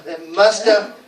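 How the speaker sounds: MUST HAVE as "musta"; reduced must have. Shown as a demonstration. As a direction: link must and have into one word. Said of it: "we don't even go the".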